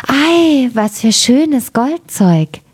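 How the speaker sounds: high, slow marvelling cry; a calling girl's voice. A narrator's reading. Girl calling out at the shiny gold, high and slow. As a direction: call out in wonder at the gold. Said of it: "Da rief sie".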